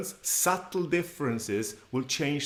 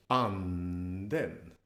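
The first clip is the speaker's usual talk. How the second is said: "anden" long and low, lifting on the second syllable; grave pitch accent; 5 semitones lower than usual. Shown as a demonstration. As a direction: start "anden" low, then go up. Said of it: "a grave".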